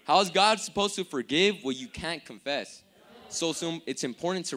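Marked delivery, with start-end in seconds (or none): 0.1-2.8 louder, fluent retake of the question; clean restatement. Real, not acted. Preacher repeats his question after a slip, clean and firm. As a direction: drive it through to "confess" without a stumble. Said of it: "Let me say that again".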